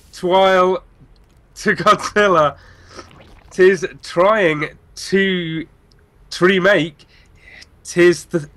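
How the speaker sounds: every word forced to start with "t", like "to down" and "tis". Pretend. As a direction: cram a T sound onto "Twile" and "to now". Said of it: "must start with the letter T".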